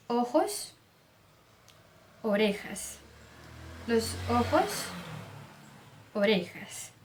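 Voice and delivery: "ojos, orejas" with narrow, rounded O; closed O. Shown as a demonstration. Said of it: "vai também ser sempre fechado".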